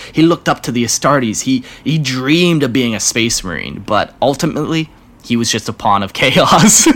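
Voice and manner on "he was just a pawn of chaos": laughing through the words. Real, not acted. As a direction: break into a laugh. Laughs at own punchline.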